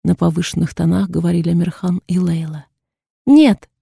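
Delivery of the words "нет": sharp high scream of refusal; shout. A narrator's reading. Daughter screaming no at her father. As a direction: yell it out, high and loud. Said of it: "закричала его дочь".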